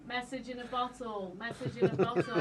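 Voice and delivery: flat robotic chant; robot voice, repeating the words. Retold or imitated. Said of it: "God, you sound like a robot".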